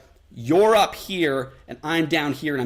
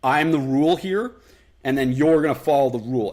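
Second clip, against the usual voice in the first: a touch louder, firm rule-setter; authoritative; 4 dB louder than usual. Retold or imitated. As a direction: speak as the one in charge. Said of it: "his frame where he's coming from".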